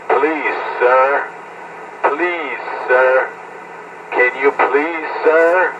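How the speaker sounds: imitated begging, drawn-out polite appeal; mock pleading. Mocking Richie as someone begging a stranger, mock pleading. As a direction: beg like a supplicant, mockingly. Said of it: "Pleading, asking, begging".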